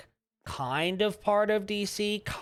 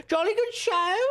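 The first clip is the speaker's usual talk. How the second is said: put-on loud jolly old-chap voice; hearty booming country squire; 11 semitones higher, 4 dB louder than usual. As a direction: toast it like a merry squire. Repeats the posh exclamation.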